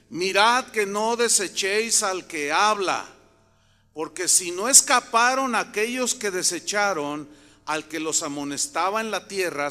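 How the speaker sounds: loud, emphatic Bible reading; scripture reading. Acted. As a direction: proclaim the verse to the congregation. Reads scripture aloud emphatically.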